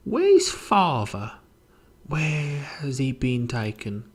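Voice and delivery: high, slow plea, falling away; confused professor. Acted. Professor asking after his father, high and confused.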